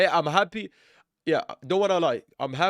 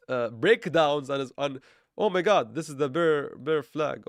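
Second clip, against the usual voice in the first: sarcastic mock alarm at the bear flag; hammed-up oh my God; mock panic. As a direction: fake panic over a chart pattern. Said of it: "for being overly sarcastic here".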